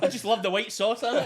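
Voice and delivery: laughing. Real, not acted. Laughing while talking.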